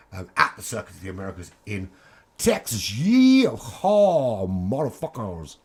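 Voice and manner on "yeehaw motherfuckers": bad American accent. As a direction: yell it like a bad-movie cowboy. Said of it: "that was the worst American accent".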